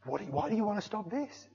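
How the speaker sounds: high, retold disbelief; shocked. Worshipper silently questions pastor ending prayer, shocked. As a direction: question it high, in mock-stunned protest. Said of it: "'cause I was shocked".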